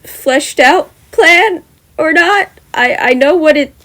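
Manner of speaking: slow, breathy whisper. Real, not acted. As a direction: trail into a whisper. Embarrassed trailing admission.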